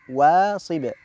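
"واصب" drawn out, then a bounced ب; qalqala on final Ba. Shown as a demonstration. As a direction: release the last ب of "واصب" with a short echo. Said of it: "قلقلة في الباء".

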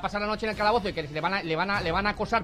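angry scolding. Pretend. Sergeant scolding, pitch up.

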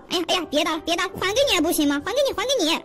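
mock yelps, begging to stop; pleading under attack. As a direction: give in hastily, acting beaten. Beaten shark begs for mercy. (假装挨打时求饶)

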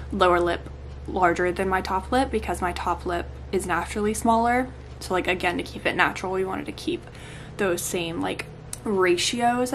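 talking through sore swollen lips; in pain. Real, not acted. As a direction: speak carefully around painful lips. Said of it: "If I'm talking weird, it's 'cause it hurts".

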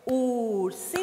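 URSINHO in long, separated syllables. Shown as a demonstration. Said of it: "Quantas sílabas tem? Vamos ver".

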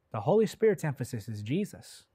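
ordinary talk

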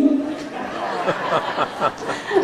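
soft breathy laugh at own joke; own laughter. Real, not acted. Joke teller to audience, soft laugh at the punchline.

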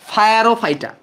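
ফায়ারোফাইটা as "fa-ya-ro-fai-ta"; memory-aid pronunciation. Shown as a demonstration. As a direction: say ফায়ারোফাইটা with English "fire" inside. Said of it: "পাইরোকে উচ্চারণ করবা ফায়ার".

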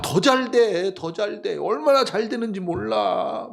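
거만한 사람 흉내로 신나게 자랑하기; 끝을 길게 끌며 뽐내는 척; 으스대는 자랑. Acted. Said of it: "막 자기 자랑만 하고". (잘난 체하는 말투)

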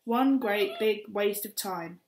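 slow bitter stamp. Acted. Kat stamping on the can.

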